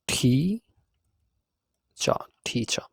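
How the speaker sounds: ঠি then চা, split apart, ঠি with an aspirated ঠ; breaking teacher into ঠি চা, aspirated ঠ; sounding out syllables. Shown as a demonstration. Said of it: "বাংলায় যদি আমি ট্রাই করি লেখার".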